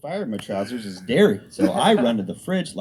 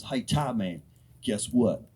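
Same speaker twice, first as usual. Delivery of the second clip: put-on Mississippi accent; slower than usual. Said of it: "L J from Mississippi".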